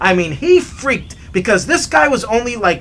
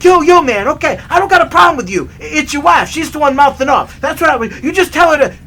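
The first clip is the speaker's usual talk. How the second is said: high, loud frantic excuses; imitated panicky backpedaling; 8 semitones higher, 5 dB louder than usual. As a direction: plead your way out, mock-panicked. Freaked-out small man backing down.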